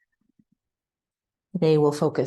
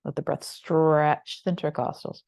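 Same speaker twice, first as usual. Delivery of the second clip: unhurried yoga body-scan voice, long pauses between phrases; calm, spacious meditation cueing; guided meditation. Real, not acted.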